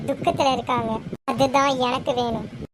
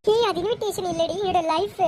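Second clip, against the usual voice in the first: higher, mildly tearful protest; 4 semitones higher than usual. Acted. Elder sister insists it is her life, tearful. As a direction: protest as if near tears. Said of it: "இன்விடேஷனுக்காக இப்படி அழுகுறியா".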